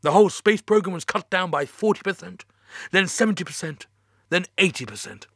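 high, strained, near tears; fighting not to cry; holding back tears. Acted. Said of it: "trying to stifle the tears".

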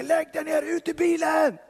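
high, sharp shouted command; police shouting. Retold or imitated. Police officers ordering him out of the car, shouted. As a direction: bark it like a cop at gunpoint. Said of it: "Hoppar ur bilen och skriker".

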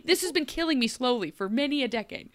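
laughing through a hammed-up rant; mock-whine while cracking up; mock Korra complaint. Korra complaining about wheat, laughing and hammed up. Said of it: "Korra's just being like".

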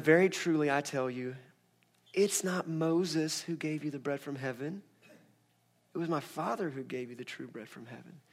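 like an angry mom holding it in; soft and slow. Shown as a demonstration. Jesus answering the crowd softly and slowly, barely holding anger. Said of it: "she talks real soft and slow".

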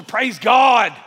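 put-on loud old-school church shout of "Praise God"; shouted "Praise God", old-time revival style. Shown as a demonstration. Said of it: "Say it old school".

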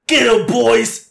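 loud, high, far orc war cry. Acted. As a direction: roar it like an orc charging. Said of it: "that's my best orc voice".

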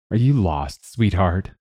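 light mocking taunt. Gang boss taunting the armored visitor, mocking. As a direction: tease her like a smug gang boss. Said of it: "Serpent Head asked mockingly".

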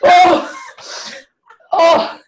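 high, loud comic "oh!"; loud exclaimed oh. Acted. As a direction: burst out with a high "oh". Comic outburst after black-magic accusation.

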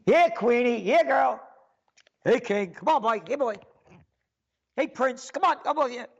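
mock dog-calling owner. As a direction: call them like dogs to heel. Calling royals like dogs.

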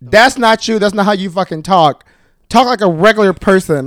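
a hint of a stern judge scolding; lightly voiced no-nonsense reprimand; mild mock telling-off from a judge; Michelle Visage impression. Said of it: "I'm gonna give you the impression".

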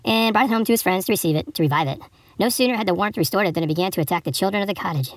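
storybook reading with lilting pitch; fable read aloud. Acted. Host reading an Aesop fable to listeners, storybook narration.

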